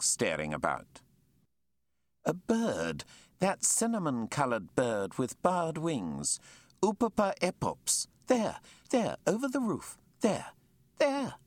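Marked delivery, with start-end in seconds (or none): 2.2-11.3 thrilled, jabbing at the bird overhead; excited pointing. Acted. Naturalist shows Jack the hoopoe over the roof, thrilled.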